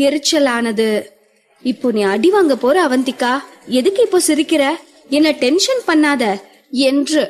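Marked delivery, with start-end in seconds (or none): 1.6-6.2 mild anger. Acted. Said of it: "கோபமாக பேசவும்".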